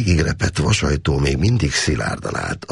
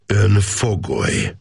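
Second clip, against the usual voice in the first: Ön fogoly, both words pressed hard, slow and higher; weighted words; 6 semitones higher, slower than usual. A narrator's reading. Officer telling the prisoner Ön fogoly, each word pressed slow. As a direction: lean on Ön and fogoly, slow and heavy. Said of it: "erőteljesen megnyomva a szavakat".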